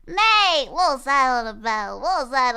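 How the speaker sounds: loud laughing cry of Mate!; excited shout. Real, not acted. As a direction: belt out Mate! in delight. Excited reaction to video clip.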